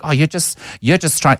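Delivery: high, mocking white South African accent. Imitating white trolls online, mocking white South African accent. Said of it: "in exactly this accent".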